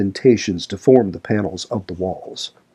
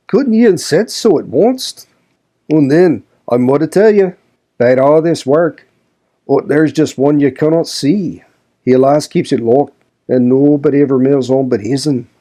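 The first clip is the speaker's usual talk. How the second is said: louder, higher crusty Yorkshire servant; grumbling old servant Joseph; 5 semitones higher, 4 dB louder than usual. A narrator's reading. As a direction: grouse at her like a sour old manservant. Joseph voiced in reading.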